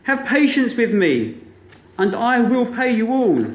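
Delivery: a touch of a desperate debtor; mild begging. Acted. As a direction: beg him for time, understated. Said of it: "fell down at his feet and begged him".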